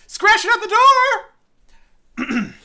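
hammed-up unhinged scream, very high and drawn out; Nicolas Cage freak-out. Host's opinions clawing to get out, mock-manic shriek. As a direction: shriek each word slowly like a manic actor. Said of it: "you're caging a little too much".

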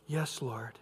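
soft, unvoiced "Yes, Lord"; whispered confession. Adam confessing to God, whispered. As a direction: breathe it out humbly.

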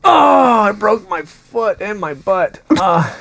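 sudden high yelp of surprise; startled yelp. Real, not acted. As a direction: yelp as if hurt. Checking her feet, exclaims.

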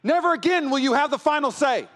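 high-pitched, furious declaration; acted anger. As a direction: thunder it at the enemy from the pulpit. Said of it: "it would be anger".

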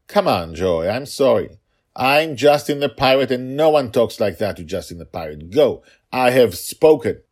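put-on high, loud, pompous kid voice; mock pirate child. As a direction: strut like a bossy kid pirate. Father mocking Justin the Pirate.

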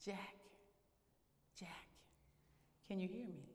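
very soft, calm call from above; voice of the Lord. Acted. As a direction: call gently to someone far below. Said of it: "when he heard a voice".

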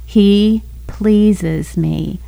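very slow and gentle, words stretched; sweet voice again. Retold or imitated. The inner voice repeats itself to the wife, slow and tender. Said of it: "this voice came again".

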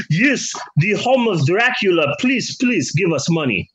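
lightly voiced pleading villager; a hint of a begging local guide; mock tourism pitch. Mocking Transylvania pleading with tourists for money, lightly voiced.

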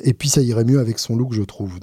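sarcastic repeat of the YouTube comment; mocking repeat. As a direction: toss the critic's line back with irony. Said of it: "Je sais pas ce que ça veut dire".

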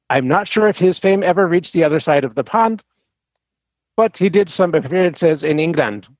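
put-on reading in a Swedish accent. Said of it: "the horrible Swedish accent".

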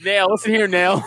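bossy doctor. Retold or imitated. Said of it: "He's like".

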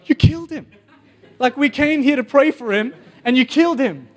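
high, loud, outraged doctors; shocked accusation. Retold or imitated. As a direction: shout it at him in disbelief.

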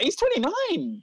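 high-pitched laughing insistence; laughing disbelief. Real, not acted. Insisting on the age, exasperated.

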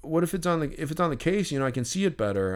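lightly voiced kid. Little kid argues for signing the case, lightly imitated. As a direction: lightly act out a kid haggling, tripping over words. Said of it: "There was a little kid".

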